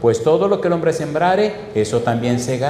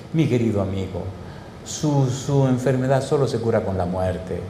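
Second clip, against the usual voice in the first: tender doctor; 3 semitones lower, 4 dB quieter than usual. Retold or imitated. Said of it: "yo le sentí un dolor a ese hombre".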